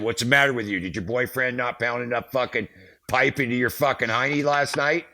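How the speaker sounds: high, loud retold taunt; fired up. Roadie retelling how he insulted the border cop, fired up. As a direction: hurl the insult as in a heated argument. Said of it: "get all fired up".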